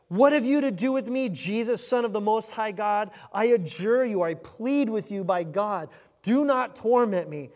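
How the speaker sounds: loud, high-pitched demonic plea; crying out loudly. Acted. Demon in the man pleads with Jesus, crying out loudly. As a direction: cry it out with full force. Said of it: "crying out with a loud voice".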